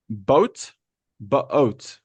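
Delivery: "boat" said as a careful, separate model word; pronunciation model. Shown as a demonstration. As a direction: model "boat" for learners, second time drawn out. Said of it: "Listen to my pronunciation".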